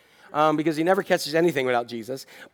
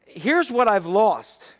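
self-pitying complaint; 3 semitones higher, much slower than usual. Retold or imitated. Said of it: "just look and say".

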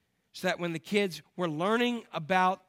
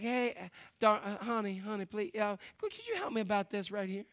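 put-on Southern accent; 5 semitones higher than usual. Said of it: "they've got Southern accents".

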